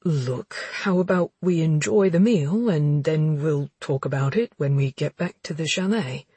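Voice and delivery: soothing male friend voice; coaxing, placating man; pleading friend voice. Acted. Warren voiced in dialogue.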